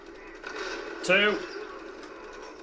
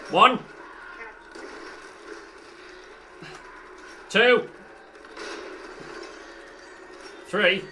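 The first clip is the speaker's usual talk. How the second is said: counting shots; 6 semitones higher, slower than usual. Real, not acted. Counting grenade throws.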